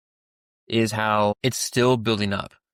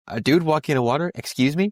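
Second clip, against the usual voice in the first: higher-pitched, incredulous questioning; mock alarmed disbelief; 4 semitones higher than usual. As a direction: play a disciple who can't believe their eyes. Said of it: "in fear because they're like".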